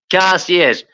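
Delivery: retold in thick Scottish; solid Scottish accent. Quoting people messaging about the poker, solid Scottish accent. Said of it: "I'm talking s-, t-, solid Scottish here".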